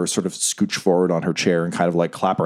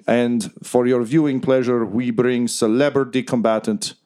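arena announcer; 3 semitones higher than usual. Acted. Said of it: "Reznov says".

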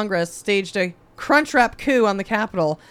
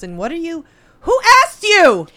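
indignant shout; 5 semitones higher, 6 dB louder than usual. Real, not acted. Ranting at Manchin.

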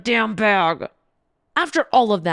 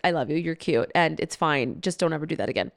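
lower, softer, tender comfort; gentle reassurance; 4 semitones lower, 4 dB quieter than usual. Retold or imitated. Comforting Riley after he felt so bad, softly reassuring. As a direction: soothe him while still warning. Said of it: "And I was like".

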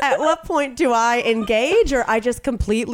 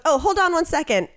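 sweet receptionist; 6 semitones higher than usual. Retold or imitated. Receptionist puts him on hold.

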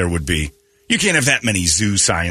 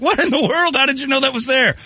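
surprised. Retold or imitated. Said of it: "And I'm like".

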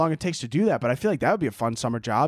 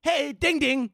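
sing-song high greeting, much higher; read as written; 12 semitones higher, slower than usual. Shown as a demonstration. Host reading a listener's message aloud, sing-song chirpy greeting. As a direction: chirp it like a cheery doorbell. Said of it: "I'm gonna read it like you wrote it".

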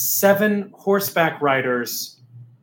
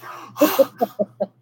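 audience gasp; 7 semitones higher than usual. Retold or imitated. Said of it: "the whole audience is like".

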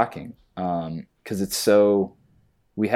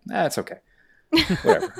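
dismissive; 12 semitones higher, faster than usual. Retold or imitated. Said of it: "I'm like".

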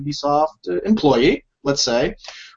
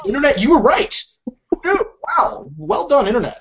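sarcastic; 8 semitones higher than usual. Pretend. Mock praise of the internet.

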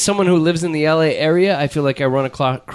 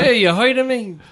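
put-on old borscht belt comic; 6 semitones higher than usual. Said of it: "like, a weird borscht belt".

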